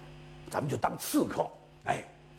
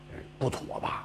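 hesitant; 6 dB quieter than usual. Acted. Minister hesitates, unsure.

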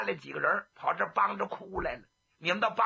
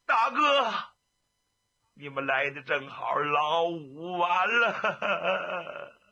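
sobbing grief; much slower than usual. Acted. The grieving official tells the brothers Lao Wu is gone, sobbing. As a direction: wail out the bad news, choking on it. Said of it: "又哭背过气去了".

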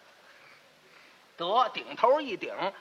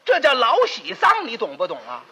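loud lecturing; 4 semitones higher, 4 dB louder than usual. Acted. Lecturing neighbour on happy funeral.

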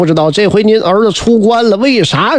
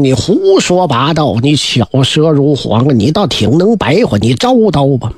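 put-on angry old general; 7 semitones lower than usual. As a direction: growl it out as the furious old father. Old general Huang Gun rebukes Huang Ming.

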